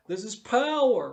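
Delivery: slow, loud, grand host proclaiming power; imitating Mister Rourke. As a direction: boom it out like the island's master. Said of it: "That energy, that Mister Rourke would do".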